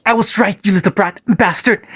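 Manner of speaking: put-on high, sharp yelping at the boy; yelped insults. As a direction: spit the insults up high like an angry old man. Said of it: "and yelped".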